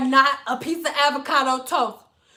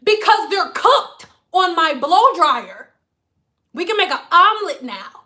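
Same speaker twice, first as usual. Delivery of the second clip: higher, louder client voice; 5 semitones higher, 4 dB louder than usual. Retold or imitated. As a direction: voice the ditzy client.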